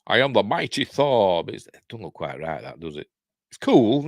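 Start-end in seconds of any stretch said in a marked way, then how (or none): 0.1-1.4 light impression of the film star as a thunder god; mock-heroic, lightly voiced proclamation; Sean Connery. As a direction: announce it grandly, lightly in character. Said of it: "Sean Connery as Thor".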